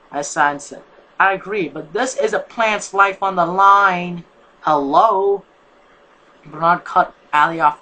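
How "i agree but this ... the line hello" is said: exasperated. A narrator's reading. Sighed then argues.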